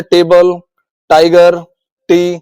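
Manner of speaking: टेबल, टाइगर, टी each begun with a clear Hindi ट. Shown as a demonstration. Teacher giving T examples, firm ट sound in टेबल, टाइगर, टी. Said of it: "ट या त बोला जाता है".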